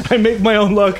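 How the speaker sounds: teasing echo of the shout; mock defiant quote. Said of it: "quoting Adam, laughing".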